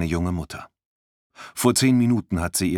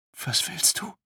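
high, thin frightened question; a girl fearfully questioning a stranger, high and tense; 12 semitones higher, 3 dB quieter than usual. Acted. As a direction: ask it scared, voice up high. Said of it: "fragt sie ängstlich".

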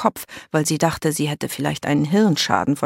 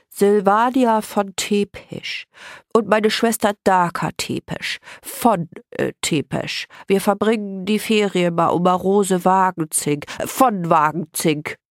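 higher, nose-held introduction with awkward corrections; put-on nasal voice; 4 semitones higher than usual. A narrator's reading. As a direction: speak as if pinching your nose shut. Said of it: "näselte sie".

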